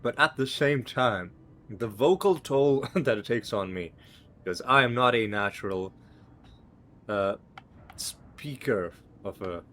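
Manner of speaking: talking around a cough drop; mouth full. Real, not acted. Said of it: "'cause I got something in my mouth".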